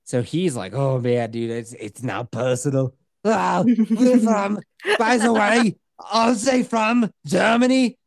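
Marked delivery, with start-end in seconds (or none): 0.7-4.6 put-on a light, slow Sean Connery-ish accent; a hint of Sean Connery-ish accent. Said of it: "you sounded a little bit Sean Connery-y". 5.0-8.0 put-on a light, slow Sean Connery-ish accent; a hint of Sean Connery-ish accent. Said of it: "you sounded a little bit Sean Connery-y".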